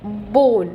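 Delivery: बोन with a long drawn O; long vowel demo. Shown as a demonstration. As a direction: stretch the O in बोन. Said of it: "बोन नहीं कह रहे". (बोन को लंबा खींचकर)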